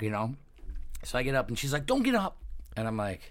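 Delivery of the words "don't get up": much higher, curt warning; mock snippy girl. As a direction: play the offended girl. Girl snaps at the teller.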